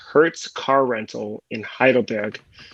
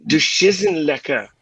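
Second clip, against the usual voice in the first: deadpan German; slower than usual. Shown as a demonstration. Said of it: "If you really wanna carry off with it".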